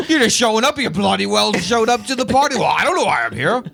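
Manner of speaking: laughing Scottish-Irish caricature; mock Irish accent. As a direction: drift into a hammed-up Irish brogue. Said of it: "It's like you got into a Scottish accent".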